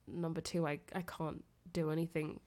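ordinary talk, nothing marked

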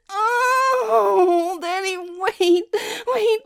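high, loud crying-out climax; climax moaning. Acted. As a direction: build to a screaming orgasm. Acted climax.

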